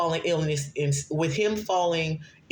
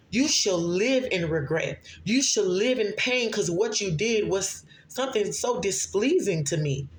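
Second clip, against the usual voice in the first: voice of the Lord; 3 semitones higher than usual. Acted. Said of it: "The Lord is saying".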